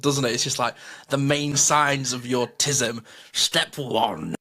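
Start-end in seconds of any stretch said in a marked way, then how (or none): 1.1-4.3 reading it out like a stiff NHS leaflet; mock formal announcer, slow; dry mock-official reading; cold official voice. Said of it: "It sounds so cold".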